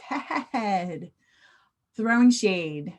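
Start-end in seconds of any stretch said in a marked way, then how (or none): 0.1-1.1 acted amusement. Shown as a demonstration. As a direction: say it through a giggle. Previews slang as hilarity example.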